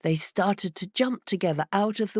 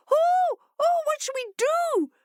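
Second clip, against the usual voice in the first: much higher, louder flustered fish; bewildered fish crying; 4 dB louder than usual. A narrator's reading. Fish at a loss without the heart, high and flustered. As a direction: flap about in panic. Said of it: "cried the bewildered fish".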